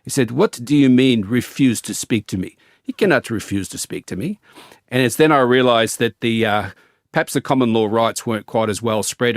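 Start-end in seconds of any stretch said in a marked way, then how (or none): 0.3-4.4 put-on a light South African accent, slightly raised at the start; lightly voiced South African officer, indignant; hint of a South African accent, mildly incredulous. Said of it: "South African voice".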